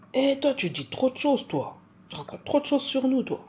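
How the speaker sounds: reproche joueur, plus aigu; gronde-la pour rire; voix taquine du proche. Acted. Le mari la taquine hors champ. (un proche lui reproche de trop raconter, taquin)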